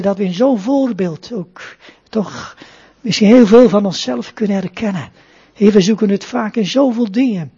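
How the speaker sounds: rustig biddende preekstem; prayer. Acted. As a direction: pray calmly and reverently to the Father. Closing prayer after sermon. (plechtig gebed tot God)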